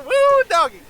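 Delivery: high, loud Southern whoop; Dale from King of the Hill. Acted. Doug whoops with joy over his hat, Dale style. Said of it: "that's more Dale from King of the Hill".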